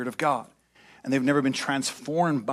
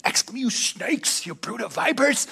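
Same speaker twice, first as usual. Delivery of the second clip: frustrated whisper; 7 semitones higher than usual. Retold or imitated. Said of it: "Jesus was probably a little frustrated here".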